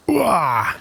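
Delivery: high falling "wah"; effort cry. Real, not acted. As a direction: let out a falling cry on the cast. Casting the fishing line.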